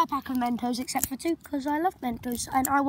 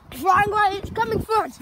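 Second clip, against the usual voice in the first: excited; 5 semitones higher than usual. Real, not acted. Bee chases them.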